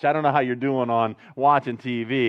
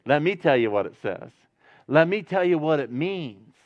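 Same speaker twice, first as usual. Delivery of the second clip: gentle. Retold or imitated. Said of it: "he doesn't say it with that tone".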